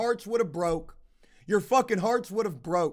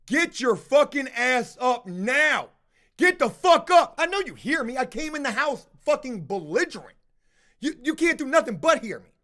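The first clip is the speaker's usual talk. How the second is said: raised, forceful retelling of a yell; retold screaming; 2 semitones higher than usual. Irate housemate rousing someone faking sleep, retold screaming. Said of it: "I am fucking screaming".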